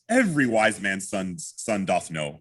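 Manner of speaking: slow, matter-of-fact statement; measured statement of the obvious. Shown as a demonstration. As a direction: state it slowly as plain fact. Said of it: "a matter of fact".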